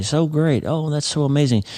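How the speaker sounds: high, gushing mock joy; jumping for joy. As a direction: squeal it like fresh good news.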